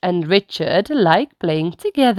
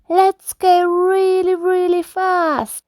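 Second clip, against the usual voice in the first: higher, eager and drawn out; eager Rebecca; 12 semitones higher than usual. Acted. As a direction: beg to go faster, all excitement. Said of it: "says Rebecca".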